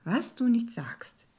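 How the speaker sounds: drawn-out, lightly amused irony. A narrator's reading. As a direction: play along with mock astonishment, amused. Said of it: "erwiderte ich amüsiert".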